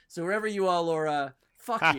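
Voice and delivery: mock angry curse. Mock angry at fan's sign.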